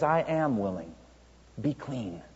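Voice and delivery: lightly voiced tender reassurance, easing down; gentle assurance. Jesus assures the leper he is willing, retold gently. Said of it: "he says so gently".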